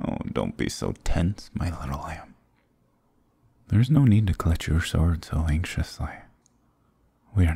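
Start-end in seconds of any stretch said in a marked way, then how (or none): 0.1-2.3 soft, teasing murmur; hushed, patronizing reassurance; mock soothing. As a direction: soothe your prey condescendingly. Demon mockingly soothes the tense hero.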